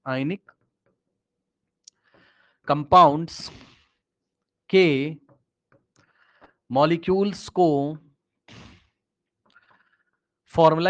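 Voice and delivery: word by word, long pauses between each word; slow dictation. Shown as a demonstration. Teacher repeating slowly for a student who asked again, word by word. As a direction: spell it out slowly so students can write it down. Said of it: "क्या बोला sir आपने?".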